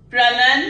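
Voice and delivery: "प्रनन" with a clipped pr; the right joined start; correct prenun. Shown as a demonstration. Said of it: "not प्रो या पर".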